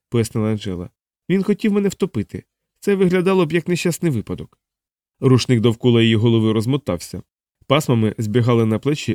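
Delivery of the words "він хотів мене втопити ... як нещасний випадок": high-pitched, anxious account of an attack; frightened young woman. Acted. Angela telling Vlad about the intruder, shaken. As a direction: tell it in a higher woman's voice, still shaken.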